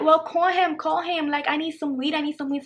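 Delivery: lightly whiny imitation of nagging; imitated pestering. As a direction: pester like a friend who won't let it go. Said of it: "he kept bothering me".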